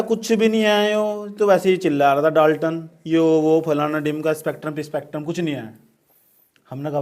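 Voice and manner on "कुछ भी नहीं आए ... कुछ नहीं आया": Thomson yelling Dalton off; mock rant. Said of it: "नू कह रहा". (थॉमसन बनकर ज़ोर से डाँटते हुए)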